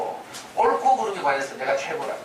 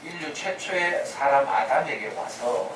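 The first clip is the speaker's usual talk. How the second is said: ordinary delivery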